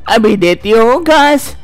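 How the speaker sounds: put-on a nagging elderly amma, worried; fussy old mother-in-law. Mother-in-law answers the bahu's calls, fussing.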